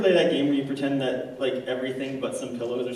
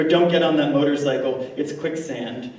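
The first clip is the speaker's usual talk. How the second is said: warning shout; 5 dB louder than usual. Retold or imitated. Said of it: "wished to shout out".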